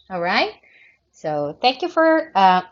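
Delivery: speaking with a creaky voice. Real, not acted. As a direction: let the voice creak through the words. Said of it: "I'm sorry for my creaky voice".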